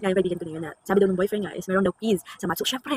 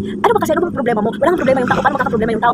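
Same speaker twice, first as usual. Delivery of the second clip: louder irritated questioning; harsh retort; 2 semitones higher, 4 dB louder, faster than usual. Retold or imitated. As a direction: mimic a friend snapping back annoyed. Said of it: "harsh din yung pagkasabi niya". (pabalang at inis na pagtatanong)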